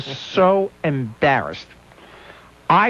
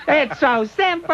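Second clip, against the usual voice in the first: mild Dom DeLuise; 9 semitones higher, slower than usual. Retold or imitated. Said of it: "that's all we're going to hear".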